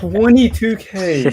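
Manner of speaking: stunned repeat of a shocking number; incredulous echo. Real, not acted. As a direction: stretch out the figure in amazement. Stunned echo of UK doctors' pay.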